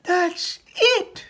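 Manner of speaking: very high, loud cry of recognition; excited manticore. Acted. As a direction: shout it out in delight.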